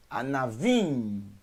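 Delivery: Anavim drawn out into a hummed M; closed-mouth final M. Shown as a demonstration. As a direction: say Anavim slowly, shutting the lips at the end. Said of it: "fecha a boca no final".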